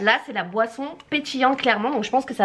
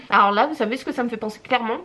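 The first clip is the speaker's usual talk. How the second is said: mouth full; faster than usual. Real, not acted. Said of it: "on parle pas la bouche pleine".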